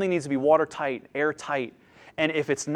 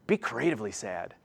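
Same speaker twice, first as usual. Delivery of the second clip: mock instruction; 7 semitones lower, 10 dB quieter than usual. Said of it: "mock instruction".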